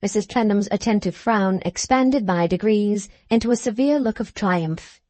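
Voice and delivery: usual speaking voice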